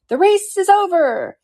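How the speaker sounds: high, drawn-out announcement; calling out. A narrator's reading. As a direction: call it out slowly to the whole crowd. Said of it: "The dodo suddenly called out".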